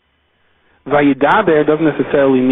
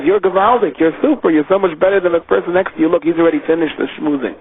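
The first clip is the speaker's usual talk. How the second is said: a lightly raised, flattering tempter; flattering king; 3 semitones higher than usual. Acted. The Yetzer Hara as a king flatters the worshipper: lightly raised flattery. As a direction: puff him up with praise, lightly voiced. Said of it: "comes in the form of a king and says".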